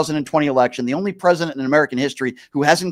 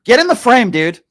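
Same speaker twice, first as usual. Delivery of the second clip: talking round a cigarette; words around a cigarette in mouth; 6 semitones higher, 4 dB louder than usual. Shown as a demonstration. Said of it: "May I put this in my mouth?".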